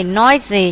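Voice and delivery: "Noisy" stressed on NOI; first-syllable stress. Shown as a demonstration. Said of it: "nhấn âm một". ("Noisy" nhấn âm một)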